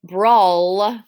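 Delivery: BRAWL drawn out to a clear L; ul sound at end. Shown as a demonstration. Teacher checking which words end in ul, drawn out. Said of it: "have an ul sound at the end".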